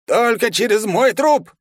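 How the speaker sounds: slow, high and loud protest; old guard refusing flatly; outraged old man. A narrator's reading. Old guard objects loudly. (громко, возмущённо)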